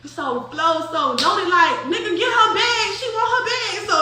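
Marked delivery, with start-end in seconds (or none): 1.9-3.7 high-pitched retold command; imitated urgent order. Loaded telling someone to fetch the bag, high imitation. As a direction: mimic an exasperated order, voice way up.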